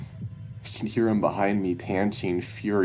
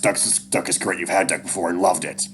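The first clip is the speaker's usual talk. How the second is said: eager urging; 6 dB louder than usual. Acted. Dad urging son at duck hunt.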